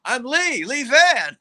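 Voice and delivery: high-pitched retold greeting; retold eager introduction. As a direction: imitate a fan introducing himself. Retold fan introducing himself.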